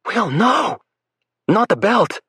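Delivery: high, loud hammed-up cry; dramatic yell. Lake faking a beating for the boys outside, hammed-up yell. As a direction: overact the terror for the boys. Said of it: "she yells dramatically".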